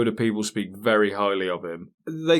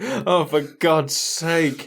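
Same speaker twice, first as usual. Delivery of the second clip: exasperated dog; 5 semitones higher, much slower than usual. Retold or imitated. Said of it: "It's just like".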